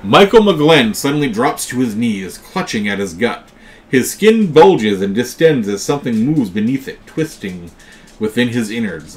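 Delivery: lively game master's storytelling, falling away at phrase ends; dramatic narration. Acted. Game master reading a sudden affliction to players, dramatic narration. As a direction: narrate the horror with emphatic openings. Reads event card dramatically.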